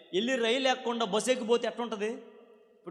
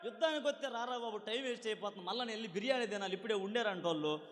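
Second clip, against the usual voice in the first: softer, rushed, bored giant; impatient Goliath; 6 dB quieter, faster than usual. Acted. Goliath taunting David, lightly voiced impatient giant. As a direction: brush the boy off, hurry it along. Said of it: "అడిగాడు గొల్లియాతు".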